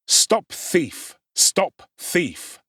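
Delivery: mild shouting of a street crowd; crowd cry. Acted. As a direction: call it out as the mob joins in. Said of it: "The cry is taken up".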